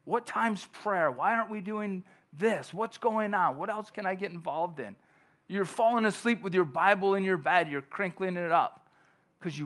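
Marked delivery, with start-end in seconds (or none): 0.0-4.9 mildly keen new convert, pitched up; raised, wondering questions; eagerly wondering. Acted. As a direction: ask like an eager new believer. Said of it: "they're wondering".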